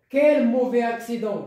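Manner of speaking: strong attack on "Quel", then falling; exclamation. Shown as a demonstration. Teacher shows where the exclamation mark goes, exclamation. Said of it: "le point d'exclamation".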